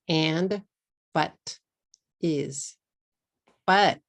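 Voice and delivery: AND, BUT, IS each as one clean English syllable; crisp single-syllable English words, no added vowels. Shown as a demonstration. Teacher listing English words for learners, one syllable each. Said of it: "these three words are each only one syllable".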